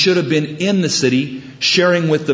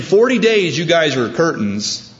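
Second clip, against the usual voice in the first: mock doom prophet; 4 semitones higher than usual. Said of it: "He went around saying".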